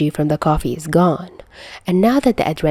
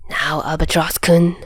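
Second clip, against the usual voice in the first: stern. Acted. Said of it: "Doc says in a stern voice".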